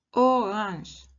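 "orange" said the French way, uvular r, nasal ending. Shown as a demonstration. Teacher models French word for her students, careful pronunciation. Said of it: "en francés la palabra naranja se dice".

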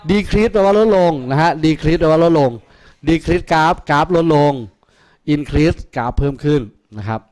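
slow, deliberate term drill; slow teaching drill. Shown as a demonstration. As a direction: spell each word out slowly for the class. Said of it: "teacher drills the terms".

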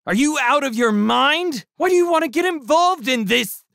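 high, loud outraged yell; furious. A narrator's reading. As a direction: explode at the partner. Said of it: "The shrimp was furious".

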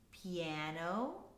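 soft piano. Shown as a demonstration. Teacher listing dynamics for students to repeat, soft. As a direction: say it gently low, rising at the end. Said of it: "in order from quietest to loudest".

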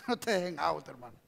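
low, soft aside; quiet warning. Real, not acted. Preacher to a brother, quiet warning. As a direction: drop it down to a confidential warning.

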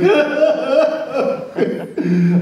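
high, broken mock wailing. Storyteller reliving thinking he killed Sherman, high mock wail. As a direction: wail in exaggerated horror. Mock panic at killing pet.

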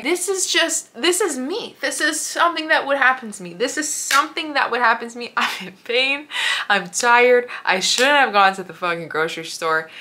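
giggly exasperated disbelief; laughing exasperation. Retold or imitated. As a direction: laugh through the frustration. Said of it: "started laughing because I was like".

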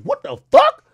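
high, loud incredulous yelp; stunned outburst on spotting a star; disbelief. Retold or imitated. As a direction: squeal it in total disbelief. Spotting Serena Williams dancing.

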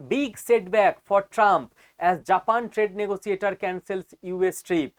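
very slow, deliberate reading; slow headline read. Acted. Showing viewers the Reuters headline, slow read.

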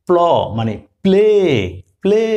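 প্লে with প and ল fused into one cluster; teacher modelling the pl blend in প্লে; blended pl demo. Shown as a demonstration. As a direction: say প্লে as a single pl sound. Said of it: "প, ল বলতে হয়েছে কিন্তু একসাথে প্ল".

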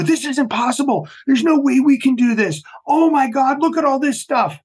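high-pitched, overwhelmed recruit imitation; mock panic. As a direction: act out recruits despairing at the workload. Imitates demoralized recruits seeing the schedule.

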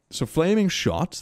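ordinary delivery

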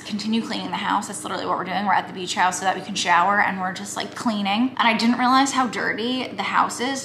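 talking with teeth covered; slight lisp from strips. Real, not acted. Seen 2: applied at -12 to -1; teeth coated while talking, timer running.

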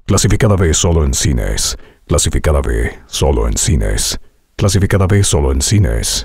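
deep trailer tone, varied pitch; trailer voice variations. Shown as a demonstration. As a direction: keep the same timbre throughout. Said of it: "tiene que continuar ese mismo registro".

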